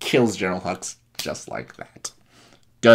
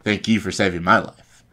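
louder, insistent gratitude; emphatic thanks; 5 dB louder than usual. Retold or imitated. Finn returning thanks to Han, emphatic and loud. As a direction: throw the thanks back firmly.

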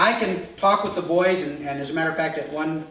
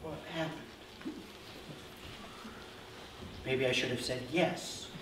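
confused mumble; 3 semitones lower, 15 dB quieter than usual. Retold or imitated. His bewildered reply retold.

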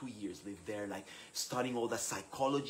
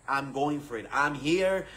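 louder, emphatic self-assertion; determined resolve; 2 semitones higher, 6 dB louder than usual. Retold or imitated. New leader deciding to face imposter syndrome, determined. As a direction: push forward with conviction.

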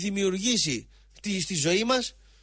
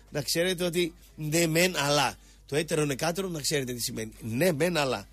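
usual speaking voice

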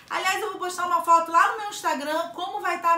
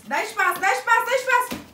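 excited shout; 9 semitones higher, 5 dB louder than usual. Real, not acted. Mom excited, demanding room.

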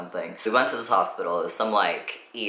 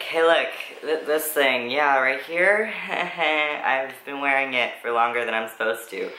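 raised-pitch awkward explanation breaking into a laugh; embarrassed laughing; 5 semitones higher than usual. Retold or imitated. Teen shows the nurse the binder, laughing awkwardly with a higher voice. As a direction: laugh nervously while admitting it.

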